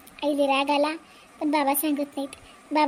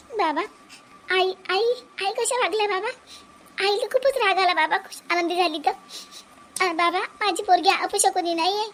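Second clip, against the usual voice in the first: tearful appeal; 3 semitones higher than usual. Acted. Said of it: "रडू नको बाई".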